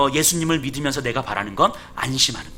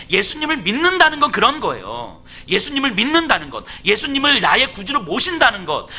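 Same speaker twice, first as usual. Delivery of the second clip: raised-pitch, insistent sermon delivery; impassioned preaching; 8 semitones higher, 4 dB louder than usual. Acted. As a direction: preach it in driving, cumulative phrases. Preaches with rising force.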